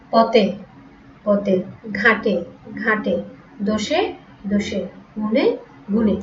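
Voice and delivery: পথে, ঘাটে, দোষে, গুণে ending in a closed "e"; সংবৃত উচ্চারণ. Shown as a demonstration. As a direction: say each word separately, final vowel in গুণে a plain "e". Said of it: "সমৃদ্ধ". (পথে, ঘাটে, দোষে, গুণে-র শেষে সংবৃত এ)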